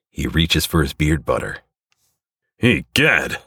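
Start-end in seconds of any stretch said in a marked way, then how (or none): 2.6-3.4 groan. A narrator's reading. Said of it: "groans the hero".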